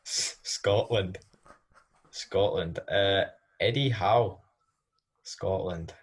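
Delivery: put-on a slow, drifting Scottish accent. Performer regaining the accent after a Birmingham slip, in Scottish. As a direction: fight back into the Scottish accent. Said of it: "You've sort of gone Birmingham there".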